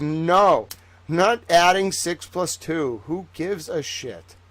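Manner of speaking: mock-indignant kid refusal; slow, emphatic imitation of defiance; retold annoyance. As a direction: dig in like a stubborn kid, retold. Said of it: "I used to get so mad".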